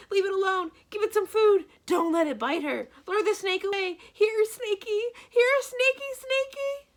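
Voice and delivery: a banker hysterically babbling at a snake; panicked high-pitched babbling. A narrator's reading. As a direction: leap about babbling in a squeaky panic. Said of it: "talk in such a high-pitched voice".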